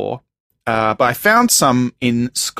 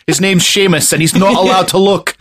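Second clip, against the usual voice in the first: comic Scottish voice, a little higher; Scottish accent; 4 semitones higher than usual. Pretend. Joking about a boy barred from looking, Scottish accent. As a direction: put on a playful Scottish accent. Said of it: "funnier than a Scottish accent".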